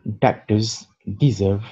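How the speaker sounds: "Biscuits are so good" read slowly, stress on "so"; slow example sentence. Shown as a demonstration. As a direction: read it slowly for learners to repeat. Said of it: "Le dernier exemple". (phrase d'exemple lue lentement)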